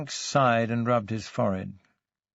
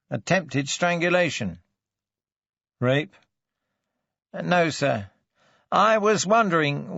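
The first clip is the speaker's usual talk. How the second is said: lightly voiced sergeant, higher and measured; a hint of a dutiful sergeant, pitched up; reporting police sergeant; 4 semitones higher than usual. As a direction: report the injuries formally to a superior.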